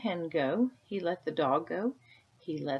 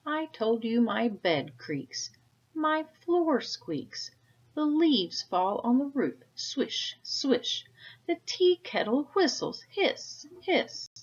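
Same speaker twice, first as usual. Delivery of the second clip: complaint climbing to a high loud shout, slow on I am going crazy; an angry man at the end of his rope, louder and higher each time; angry rant building; 7 semitones higher, 8 dB louder than usual. Acted. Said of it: "Now Peter was angry".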